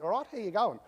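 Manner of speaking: light Australian accent greeting; a casual Aussie hello. Shown as a demonstration. Speaker shows off his Australian accent, lightly done. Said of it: "I'm speaking with an Australian accent".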